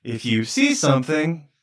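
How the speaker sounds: slow PA announcement; calm loudspeaker advisory; through a megaphone. Pretend. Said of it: "public loudspeaker".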